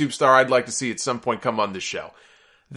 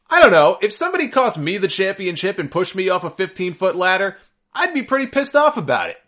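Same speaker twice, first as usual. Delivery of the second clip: exasperated disbelief; 6 semitones higher, 3 dB louder than usual. Real, not acted. Indignant rant about Ambrose.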